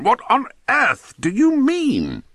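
high, stretched-out wail of frustration; exasperated. A narrator's reading. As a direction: draw each word out in exasperation. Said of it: "almost clawed the air in his frustration".

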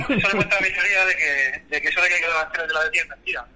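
muffled voice over the phone; voice from beyond the grave. Real, not acted. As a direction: talk down a bad phone line. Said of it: "Esta voz de ultratumba que está aquí".

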